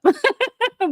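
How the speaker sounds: a sudden high laugh breaking out; high burst of laughter. Real, not acted. Vlogger laughing at the public video, high bursting laugh. Laughs at her own remark.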